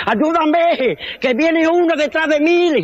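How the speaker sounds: hammed-up mild panic; mock panic. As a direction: beg for help, a touch panicked. Running from lion.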